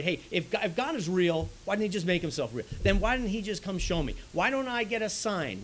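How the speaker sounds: a hint of a scoffing unbeliever; mock skeptic. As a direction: play the doubter who wants proof. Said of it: "the old sort of atheistic apologetic".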